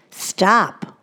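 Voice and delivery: put-on a firm whispered Stop to a child. Shown as a demonstration. Mother to toddler, a firm whispered stop. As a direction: Stop breathed out firmly in a whisper. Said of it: "Give the command".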